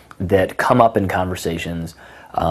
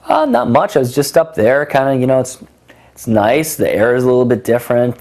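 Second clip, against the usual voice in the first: higher-pitched, mock-casual musing; playful put-on answer; 5 semitones higher than usual. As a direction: play it higher, as a casual joke. Acts out a funny reply.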